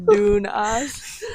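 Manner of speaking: high, squealing laughter into the words; real laughing fit. Real, not acted. Joking with friend about the dystopian background, cracking up.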